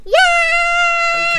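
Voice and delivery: loud high yell; shout. Real, not acted. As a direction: scream it with joy. Streamer shouting into mic.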